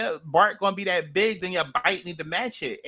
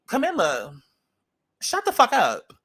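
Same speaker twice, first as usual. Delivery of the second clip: sharp, louder yell of shut the fuck up; shouted at the screen; 3 dB louder than usual. Real, not acted. Vlogger yelling at Camilla on the screen, sharp and loud.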